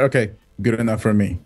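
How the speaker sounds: dismissive dad. Retold or imitated. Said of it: "I'm like".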